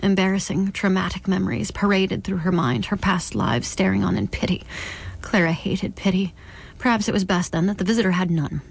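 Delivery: measured literary reading; narrator's even storytelling; story narration. A narrator's reading. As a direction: read the novel aloud, carefully phrased. Reads novel aloud.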